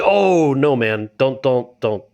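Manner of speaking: head off the manager, half under control; mock panicked plea. Alarmed plea to manager retold.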